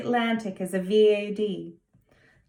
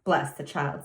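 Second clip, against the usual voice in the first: put-on old housekeeper; 6 semitones lower than usual. A narrator's reading. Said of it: "said Susan".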